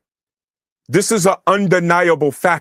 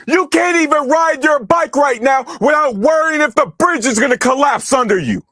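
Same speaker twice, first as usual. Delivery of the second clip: higher, heated ranting; angry rant; 5 semitones higher than usual. Real, not acted. Streamer ranting at a chat commenter, angry. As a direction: hammer the point home.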